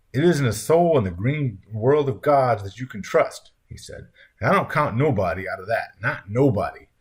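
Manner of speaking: lightly put-on country accent, emphatic; wrong character accent. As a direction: declare it in a mild folksy accent. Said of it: "I totally used the wrong accent there".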